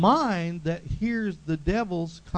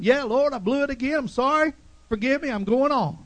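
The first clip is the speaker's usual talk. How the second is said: repentant prayer; 6 semitones higher, 4 dB louder than usual. Retold or imitated.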